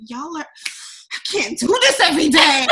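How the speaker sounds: drawn-out laughing protest; mock exasperation. Worn-out comic to stone-faced accounting coworkers, mock exasperation. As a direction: laugh through a mock complaint.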